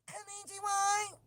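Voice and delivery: high mock voice of the headphone lady. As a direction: chirp it like a device announcer. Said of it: "this woman will come on".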